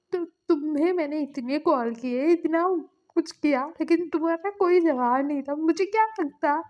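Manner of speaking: crying complaint. Retold or imitated. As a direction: pour out the hurt through tears, acted. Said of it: "ऐसा बोल के ना जंगजंग रो रहा था". (रोते हुए शिकायत, ऊँची और तेज़ आवाज़ में)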